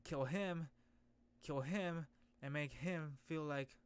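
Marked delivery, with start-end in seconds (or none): none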